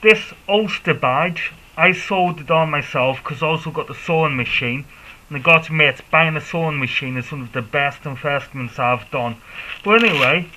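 muffled through a face mask. Real, not acted. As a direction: speak from behind a cycling mask. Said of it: "if I sound a little bit muffled".

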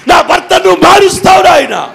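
rising, shouted high faith declarations; bold declarations. Shown as a demonstration. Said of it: "ఇవే పలకాలు".

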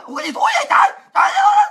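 high-pitched mock yell of disgust; disgusted outcry. Cellmates reacting to the stink, high disgusted outcry. Acting out people reacting to stench.

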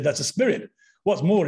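imitated Yorkshire exorcist; Yorkshire accent. Exorcist from Leeds naming a spirit, imitated Yorkshire accent. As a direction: tell it as a sure-footed Yorkshireman, accent on. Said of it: "I'm sorry about my accent".

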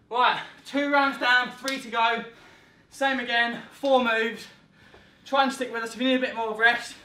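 loud, slow round announcement; rally the class between rounds; coach callout. Real, not acted.

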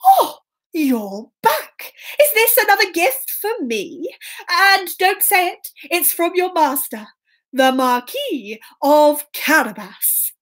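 lightly voiced king pleased by a gift; gasp, then savour it with lilting surprise; delighted king. King greets Puss's new gift.

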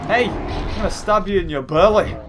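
playful attempt at a Scottish threat; mock Scottish accent. Gamer jokingly threatening his opponent, mock Scottish accent. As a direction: put on a rough-and-ready Scottish accent. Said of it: "Does that Scottish accent?".

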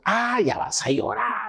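high, slow, drawn-out mock groan; exasperated mockery. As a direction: stretch it out high, fed up with tears. Mimics most people's reaction to crying.

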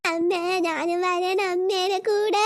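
put-on slow, drawn-out childish whine; whiny child. Little girl pleading with her mother to take her along, in a slow whine. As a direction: stretch every word like a begging toddler.

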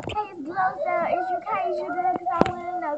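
high, bouncy Glozell imitation; sassy Glozell greeting; Glozell impression. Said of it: "This is her invitation".

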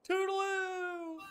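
sing-song sign-off. Acted. Signing off the video.

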